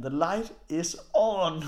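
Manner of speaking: slow, drawn-out imitation of the host; lightly mimicked host; quoting the host. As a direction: say it slow and flat, like the host telling them off. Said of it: "Og så siger han".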